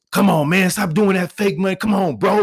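high-pitched heckle from the line; mock yelling out. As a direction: imitate an impatient customer yelling out. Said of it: "there's one dude yelled out".

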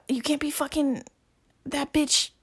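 high-pitched indignant complaint; mock going off. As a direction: imitate a jealous girl ranting. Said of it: "you go off on this dude".

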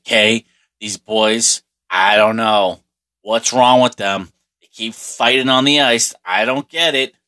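lightly voiced exasperated dad, drawn out at first; a hint of a baffled father complaining to his wife; imitated father. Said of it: "my father being like".

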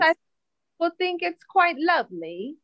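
high-pitched mock British accent; put-on British accent. Co-host defending the accents, in high mock British accent. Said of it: "The British accent".

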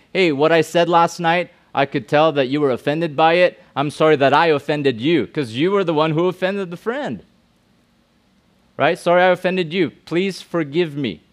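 a model apology spoken plainly and sincerely. Shown as a demonstration. Pastor shows youth the sincere apology, earnest. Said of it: "own it, and say".

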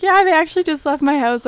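lightly voiced friend; friend's voice. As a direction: laugh it off as the friend. Voicing friend laughing.

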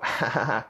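imitated dismissive chuckle; fake go-along laugh. Mimicking men who let disrespect slide, fake laugh. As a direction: laugh it off like you don't care.

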